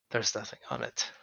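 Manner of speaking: sulky mumble over an empty gift; disgruntled mutter. Real, not acted. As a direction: mutter it in disbelief.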